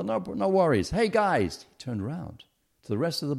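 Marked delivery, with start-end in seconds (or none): 0.0-1.7 high-pitched call to a crowd; acted-out rallying call. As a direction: hail the whole bus, voice pitched high and louder. Passenger calls out to the bus.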